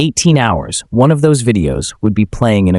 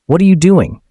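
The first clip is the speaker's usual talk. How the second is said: strained but controlled; 8 semitones higher, 3 dB louder than usual. Acted. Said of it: "David's voice is strained but controlled".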